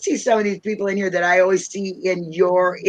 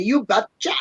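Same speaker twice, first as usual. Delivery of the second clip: lightly put-on Minnesota accent; folksy Minnesota twang; 3 semitones higher than usual. Shown as a demonstration. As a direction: punch out the Minnesota catchphrase. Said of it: "accent, you know, that we got in Minnesota".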